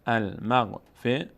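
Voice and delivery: المغفرة at half pace, ending -rah; slow syllables in المغفرة, no t; pausal h ending. Shown as a demonstration. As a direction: close المغفرة on a breathed h.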